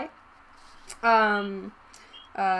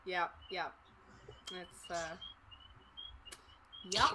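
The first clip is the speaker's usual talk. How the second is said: tired bored cashier; 5 semitones lower than usual. Acted. Cashier answers the customer.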